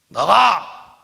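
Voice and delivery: loud demo command; commanding shout. Shown as a demonstration. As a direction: show them how to order it out. Demonstrating command to congregation. (성도들에게 보여주는 호통)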